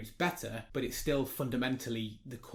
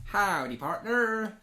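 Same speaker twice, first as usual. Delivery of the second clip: cowboy greeting; 7 semitones higher, 3 dB louder, much slower than usual. Pretend. Cowboy greeting for each follower.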